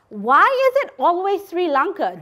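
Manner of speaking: normal talking voice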